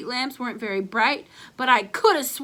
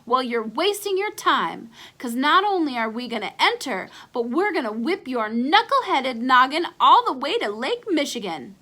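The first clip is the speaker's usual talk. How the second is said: hollering; 3 semitones higher, 4 dB louder than usual. Acted. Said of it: "hollered Ace".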